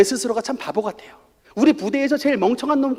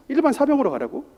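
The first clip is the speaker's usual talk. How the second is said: disbelief; 5 semitones higher than usual. Retold or imitated. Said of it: "참 이해가 안 됐습니다".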